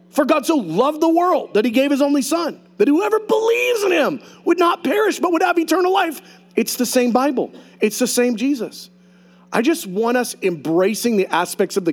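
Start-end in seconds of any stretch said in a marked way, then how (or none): 0.1-6.2 high, shouted scripture proclamation; preaching at full force. Real, not acted. Pastor proclaiming John 3:16 to the congregation, shouting high. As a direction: proclaim it ringing to the back row.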